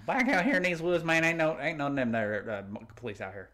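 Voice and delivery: hammed-up Southern hick, fading away; backwoods Southern accent. Joking about these here woods, mock Southern accent.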